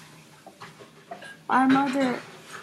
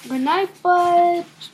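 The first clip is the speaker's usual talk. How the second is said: high, slow goodnight; little brother voice; 6 semitones higher, 8 dB louder than usual. Acted. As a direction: call it out sweetly. Child reads quote in voice.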